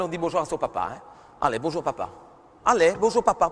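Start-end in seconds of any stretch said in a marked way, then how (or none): 2.6-3.5 brisk hello to dad; quicker greeting. Shown as a demonstration. Mother hurrying daughter, brisk hello. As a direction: say it faster this time. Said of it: "plus vite".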